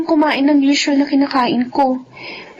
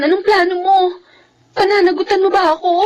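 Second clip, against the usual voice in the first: tearful plea; 4 semitones higher than usual. Acted. Pregnant girlfriend pleading with boyfriend.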